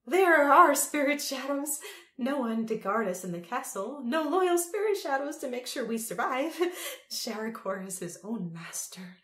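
high, loud rant dropping to whisper; mad cackling Empress. A narrator's reading. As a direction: rant madly, then hush at the end. Mad Empress rants about shadows.

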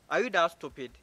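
insulting, impatient question; rude scolding. Acted. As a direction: put down a stranger rudely. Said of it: "is that how you talk to strangers?".

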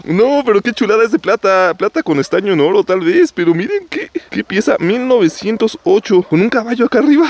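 real thrill at a silver piece; excited. Real, not acted. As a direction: pitch jumping up with excitement. Excited over silver medal find.

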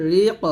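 "রি ক" with a bounced, released q; qalqalah on qaf. Shown as a demonstration. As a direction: release the final q of "রি ক" with an echo. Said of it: "কফ কলকলা". (কফে কলকলা করে "রি ক")

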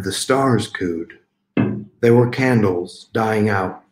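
deliberate poem reading with a pause after each line; poetry recital. Acted. Poet reads dental poem to online audience, deliberate recital. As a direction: start each line firmly and let it fall away.

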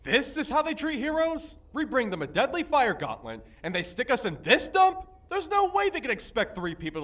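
outraged griping; indignant. Acted. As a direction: protest the insult, incredulous. Hero protests at shabby quarters.

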